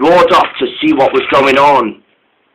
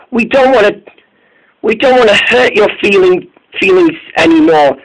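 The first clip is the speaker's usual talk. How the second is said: Caitlin's voice; 7 semitones higher than usual. A narrator's reading. Caitlin pleading, voiced high.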